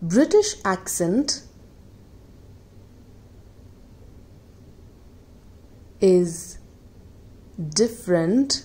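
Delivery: reading an example sentence word by word; slow example reading. Shown as a demonstration. Teacher reading an example sentence to students, slow and spaced. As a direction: dictate the sentence with long pauses. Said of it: "देखें".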